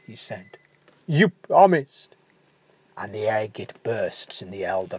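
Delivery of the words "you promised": reproach. Acted. Dying giant reproaches Leo.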